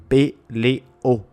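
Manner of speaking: peleo repeated, e and o kept apart; hiatus demo. Shown as a demonstration. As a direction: say peleo again, pe-le-o. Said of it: "S'il y a contact entre deux voyelles fortes".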